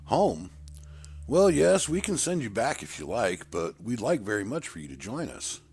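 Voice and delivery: put-on an elder coaxing the boy to stay; persuasive leader. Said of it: "He looked me in the eye".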